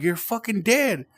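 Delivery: very high, imitated desperate insistence; distressed quote without real sobs; retold crying plea. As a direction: push it up high, as if tearful. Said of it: "and I'm crying".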